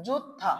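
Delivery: যুত্থা with a held stop before aspirated থ; pronunciation model. Shown as a demonstration. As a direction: break briefly before থা in যুত্থা. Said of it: "তাহলে এটা উচ্চারণটা কি হবে?".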